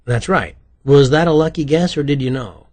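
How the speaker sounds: loud, amazed questioning; astonished. A narrator's reading. Writer learns his partner guessed correctly, astonished. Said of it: "couldn't hide his astonishment".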